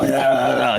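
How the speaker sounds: imitated fox attack noise; rough mock animal cry; mock animal snarl. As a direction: snarl like a fox going for someone. Imitates fox snapping at him.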